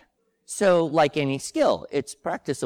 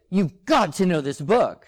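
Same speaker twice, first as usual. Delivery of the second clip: excited urging; 5 semitones higher, 4 dB louder than usual. Retold or imitated. Retold urgent text to friend.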